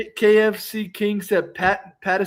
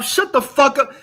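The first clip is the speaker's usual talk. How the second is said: heated rant; 4 semitones higher than usual. Real, not acted. Ranting at the critic.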